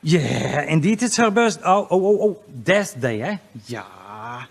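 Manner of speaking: put-on lightly Dutch-accented gloating; a hint of a Dutch accent as he taunts. Comedian taunting his Dutch ex in a light Dutch accent. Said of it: "I got to do the Dutch accent".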